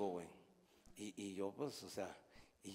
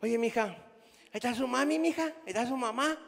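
put-on high, sing-song coo to a child; high sweet phone voice; 8 semitones higher than usual. Grandpa asking granddaughter for her mother, high coo. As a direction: sweet-talk the little girl. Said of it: "le digo".

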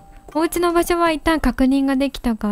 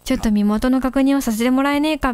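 lightly lowered tough-guy cat; スパーク. Acted. Reads Spark dialogue in gruff voice. (軽く低めのチンピラ口調)

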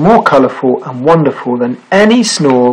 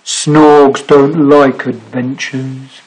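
slow grumpy Snorg; much slower than usual. Acted. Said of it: "said the Snorg".

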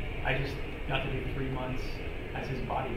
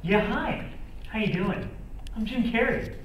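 high, loud, rubber-faced manic voice; Jim Carrey impression; 12 semitones higher, 8 dB louder than usual. Impressionist to the audience, as Jim Carrey, high and loud. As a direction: bounce in hammed-up as the zany comic. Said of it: "I do him".

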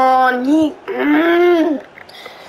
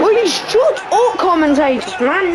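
laughing exasperation; 5 semitones higher than usual. Real, not acted. Yelling at game commentators.

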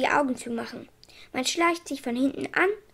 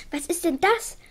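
mildly surprised; 4 semitones higher than usual. Acted. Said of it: "fragte der Doktor ganz verwundert".

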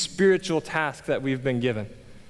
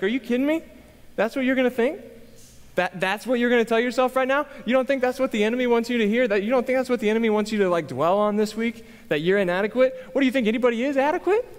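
high-pitched, rapid-fire imitation of an indignant wife; exaggerated gospel pep-scolding; fired-up, aggressive; 8 semitones higher, faster than usual. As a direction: scold in disbelief, pitch up, questions tumbling out. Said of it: "I'm being a little more aggressive than she actually was".

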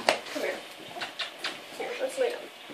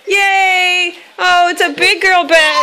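playful coaxing; much slower than usual. Real, not acted. Mom lying in the toddler's bed to coax her, playful. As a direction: make the bed sound like a treat.

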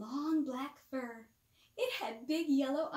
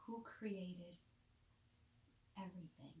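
soft unvoiced whisper, much softer; 4 semitones lower, 13 dB quieter than usual. Real, not acted. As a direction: whisper it like a bedtime secret. Bedtime whisper to child.

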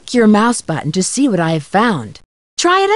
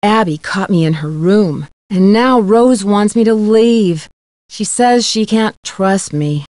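dejected. Acted. Confessing she was caught, told to leave.

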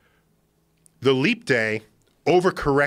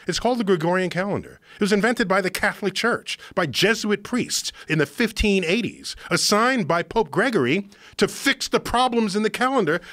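animated, higher-pitched explaining; worked up; 4 semitones higher than usual. Real, not acted. Host getting carried away explaining the calendar, worked up. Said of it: "I'm sorry, I'm screaming at you here".

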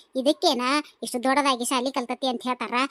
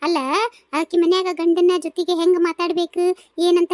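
indignant scolding; 4 semitones higher, 4 dB louder than usual. Acted. Mother-in-law scolding son's choice.

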